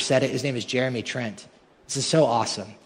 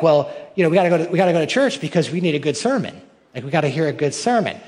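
louder, higher mocking voice; louder mock of a sermon lover; mock churchgoer; 3 semitones higher, 4 dB louder, faster than usual. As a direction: ham up the eager churchgoer.

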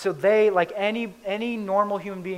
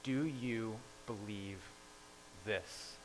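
pointed question; 6 semitones lower, 15 dB quieter, slower than usual. Retold or imitated. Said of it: "a very pointed question".

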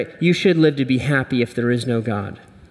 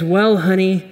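Wonder Woman voice; 4 semitones higher than usual. Acted. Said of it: "And she says".

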